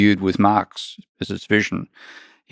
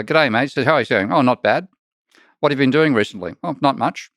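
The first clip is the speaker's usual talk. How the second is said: lightly voiced laid-back Aussie bloke, higher; Aboriginal mates chatting; 5 semitones higher than usual. Retelling a TikTok, a hint of an easygoing Aussie mate. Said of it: "he goes up to another Aboriginal mate and says".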